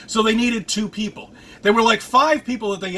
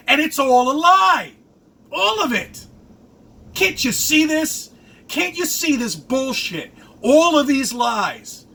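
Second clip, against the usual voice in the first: angry outburst; 5 semitones higher than usual. Real, not acted. Ranting at politicians' lies.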